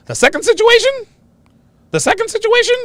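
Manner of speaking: teasing emphasis held high; big announcing build-up. Real, not acted. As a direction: tease the second point like a big reveal. Announces the punchline situation.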